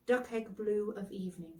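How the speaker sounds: plain reading voice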